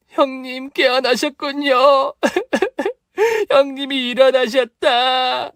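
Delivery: slow, high sobbing joy; weeping relief over her sister-in-law; tearful wailing. Acted. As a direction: wail through happy tears. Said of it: "통곡하더군요".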